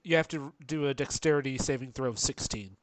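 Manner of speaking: lisping s sounds. Real, not acted. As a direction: speak with a slight lisp. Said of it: "you're sounding like you have a lisp".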